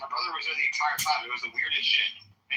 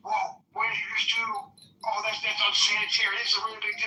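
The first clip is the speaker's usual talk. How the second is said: mocking employee; 6 semitones higher than usual. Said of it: "being like".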